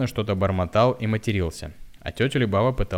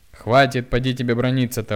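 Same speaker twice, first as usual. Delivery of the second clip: loud, higher sharp scolding; 5 semitones higher, 7 dB louder than usual. A narrator's reading. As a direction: tell him off hard. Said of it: "ругала она его". (громкий упрёк)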